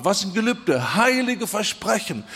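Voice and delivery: usual speaking voice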